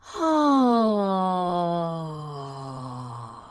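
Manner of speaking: open-throated yawn sigh falling. Shown as a demonstration. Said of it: "Pay attention to what happens when you really yawn".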